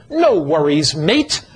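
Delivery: lightly imitated Australian "No worries, mate"; Australian lilt, rising on "mate"; Australian accent. Preacher quoting his Australian friends, light Australian accent. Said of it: "our Australian friends have an interesting phrase".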